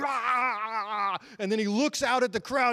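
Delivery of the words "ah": drawn-out "ah" with held-back volume; imitated victory shout. Preacher imitating Kobe after the buzzer beater, long mock yell. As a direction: mimic an athlete's triumphant yell. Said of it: "he goes".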